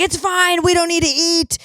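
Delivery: high mock-breezy passengers' voice; a lightly hammed-up crowd of fashion people; mocking fellow passengers. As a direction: brush it off in a squeaky chorus. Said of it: "Everybody's like".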